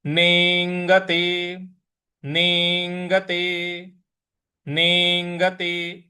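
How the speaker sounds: नेंगते, slow, leaning on the अंग part; stress on अंग. Shown as a demonstration. Teacher repeating नेंगते for students, stressing अंग. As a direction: press अंग in नेंगते, then let the ग sound fully. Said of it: "तो हमें कैसे बोलना है".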